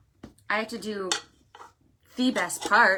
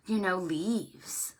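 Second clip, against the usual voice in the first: playful whisper; 2 semitones lower, 5 dB quieter, slower than usual. Acted. Suggesting imaginary ingredients.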